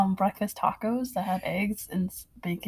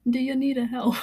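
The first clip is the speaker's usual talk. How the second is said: badly faked Scottish accent, breaking into a laugh; attempted Scottish accent; 4 semitones higher than usual. Friend imitates the man offering help, shaky attempt at Scottish accent. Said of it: "I can't do an accent".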